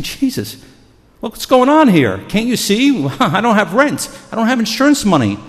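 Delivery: high, loud frantic pleading; acted-out panic, crying out for help; desperate complaint. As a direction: protest at the top of the range, overwrought. Voices believers pleading in life's storms.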